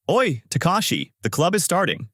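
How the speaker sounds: lightly urgent call, pitch lifted. A narrator's reading. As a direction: hail a friend on the run. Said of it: "Ken comes running, saying".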